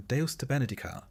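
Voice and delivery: a light, hammed-up fake Latin accent; mock-pious Latin blessing in a put-on Latin accent; quick mild fake Latin accent, barely shifted. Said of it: "in your best fake Latin accent".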